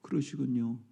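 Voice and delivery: low, soft consoling murmur; soft tender sympathy; sympathetic. Shown as a demonstration. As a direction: comfort a grieving friend gently. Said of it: "공감하면 돼".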